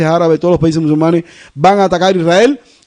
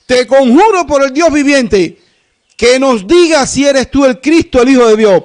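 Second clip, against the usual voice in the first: solemn adjuring priest; 6 semitones higher than usual. Acted. High priest voiced, adjuring Jesus.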